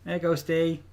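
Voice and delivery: high cooing pet voice; doting dog talk. Real, not acted. Talking baby talk to the dog.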